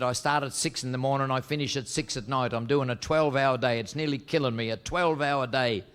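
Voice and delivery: lightly voiced Irish complainer; Irish accent. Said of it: "Two Irish fellas discussing their working hours".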